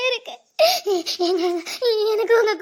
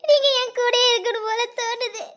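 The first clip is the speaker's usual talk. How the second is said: tearful pleading. Acted. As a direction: voice catching on tears as she begs. Wife begs husband not to leave. (அழுகையுடன் கெஞ்சல்)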